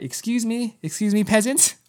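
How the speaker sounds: high-pitched, lofty mock snobbery; mock haughty. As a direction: play the grand VIP brushing past commoners. Mock-grand exit past other fans.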